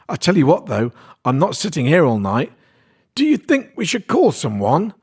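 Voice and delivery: fed up, pushing for action; lightly voiced Kirsty.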